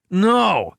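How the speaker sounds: high panicked scream; screamed refusal. A narrator's reading. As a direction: shriek it in terror. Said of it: "screamed Wright".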